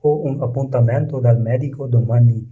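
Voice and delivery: very slow, each word laid out for learners; slow model reading. Shown as a demonstration. Teacher reading the Italian example to learners, slow and careful. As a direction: read it slowly so students can repeat. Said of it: "teacher models Italian sentence".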